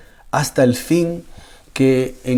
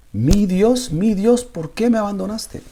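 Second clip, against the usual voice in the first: higher, pleading cry of despair; quoting Jesus crying out on the cross, higher and pleading; rising plea; 6 semitones higher than usual. Retold or imitated. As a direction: lift the plea up high, begging. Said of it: "llorando, suplicándole a Dios".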